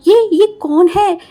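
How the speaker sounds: loud frustrated whining; exasperated complaint. Acted. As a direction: vent about the madman.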